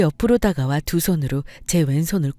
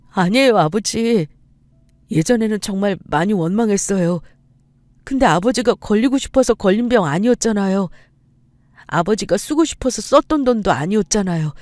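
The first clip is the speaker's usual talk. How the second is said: higher-pitched, pleading son; emotional apology; 4 semitones higher than usual. Acted. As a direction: plead with father, voice raised in pitch. Son tearfully forgives his dead father.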